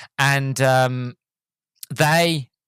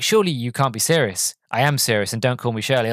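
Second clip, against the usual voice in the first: deadpan film quote, level pitch. Retold or imitated. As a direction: deliver the joke with no emphasis. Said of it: "he was deadpan".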